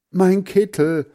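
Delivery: high, loud, stretched cry; shouting. A narrator's reading. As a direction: yell it out slowly. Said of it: "schrie Heinz". (hoch und gedehnt geschrien)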